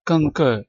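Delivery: कंकर with the final R dropped, "kong-kuh"; British silent R. Shown as a demonstration. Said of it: "इसमें भी आर silent है".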